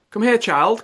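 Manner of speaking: loud, high summons; cried out. Acted. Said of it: "cried her father".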